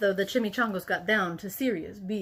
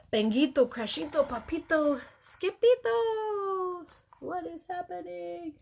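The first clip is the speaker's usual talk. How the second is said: calling out; 8 semitones higher than usual. A narrator's reading. Mama calls out alarmed.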